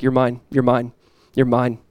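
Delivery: low, soft repeated assurance; gentle reassurance. Acted. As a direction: speak it quietly, letting each one settle. God reassuring a person alone.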